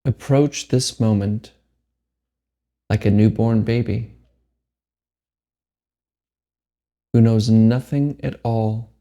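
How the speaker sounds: measured meditation guide with long pauses; unhurried phrases, each left to settle; guided meditation. Acted. Meditation teacher guides listeners to let go, guided meditation.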